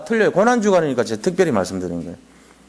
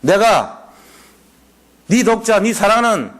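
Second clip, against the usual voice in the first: solemn proclamation; 3 semitones higher than usual. Retold or imitated. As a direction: proclaim it like a heavenly decree. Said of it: "딱 하는 말이".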